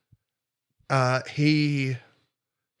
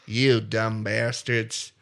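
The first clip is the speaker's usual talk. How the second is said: southern drawl; 3 semitones lower, much slower than usual. Retold or imitated. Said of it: "they need to have a southern drawl".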